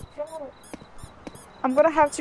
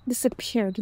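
softer retry; 3 semitones lower, 6 dB quieter than usual. Shown as a demonstration. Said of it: "That's a weird word".

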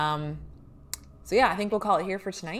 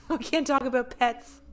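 laughing protest; 7 semitones higher than usual. Real, not acted.

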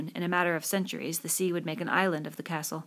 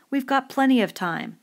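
high, loud shouted retort; shouting; 7 semitones higher, 7 dB louder than usual. A narrator's reading. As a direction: shout back in protest. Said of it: "Roger shouted".

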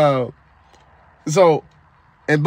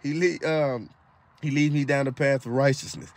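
voice of God; 7 semitones lower, 8 dB quieter than usual. Retold or imitated. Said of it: "I heard the Lord say".

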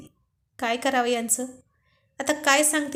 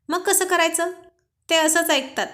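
higher and louder, playfully defending himself; playful protest; 5 semitones higher, 4 dB louder than usual. Acted. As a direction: toss it back with a grin. Groom defends his prank. (Arjun पत्नीला खेळकरपणे उत्तर देतो, उत्साही आवाज)

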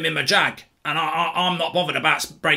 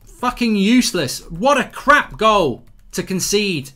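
disgusted outburst at a conceded goal; real disgust; 3 semitones higher, 3 dB louder, slower than usual. Real, not acted. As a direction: curse the team, dragging out the insult.

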